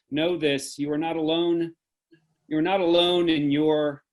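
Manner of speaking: measured, repeated declaration that swells and sinks; solemn benediction. Acted. Director closing the Zoom premiere with a solemn benediction. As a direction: intone each line like a blessing over the audience. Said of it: "the benediction at the end of every Theater of War performance".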